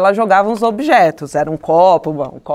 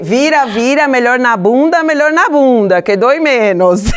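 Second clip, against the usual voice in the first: mock-respectful parent; 5 semitones higher, 3 dB louder than usual. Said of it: "Todo respeitoso".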